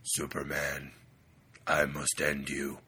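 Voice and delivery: low, slow supervillain threat; slow theatrical villain menace. Pretend. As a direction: growl it slowly like a villain. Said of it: "What kind of character would be like".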